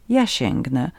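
low, composed offer; calm voice. A narrator's reading. Vagrant offers to pick up the knife, calm and low. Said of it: "powiedział spokojnym głosem Włóczęga".

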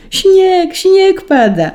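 very high, loud cry; cats shrieking with joy. A narrator's reading. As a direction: shriek the news out like excited cats. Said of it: "wrzasnęły koty". (bardzo wysoki, głośny koci okrzyk)

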